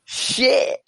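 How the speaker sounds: high cracking mock cry of dismay; a jolted Bill Burr caught off guard, half crying; dismayed curse. Bill Burr told to just be himself, high mock wail. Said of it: "He was like".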